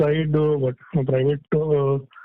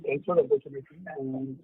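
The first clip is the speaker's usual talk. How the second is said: faint, distant phone voice; barely audible; 6 dB quieter, faster than usual. Real, not acted. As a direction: voice very low on the line. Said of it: "your voice is very low".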